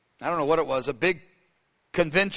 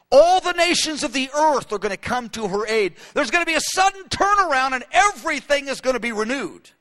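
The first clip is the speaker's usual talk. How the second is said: higher and louder, triumphant; rising proclamation; 5 semitones higher, 3 dB louder than usual. Acted. Preacher proclaiming Israel's renewal, rising and triumphant. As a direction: proclaim the turnaround with fire.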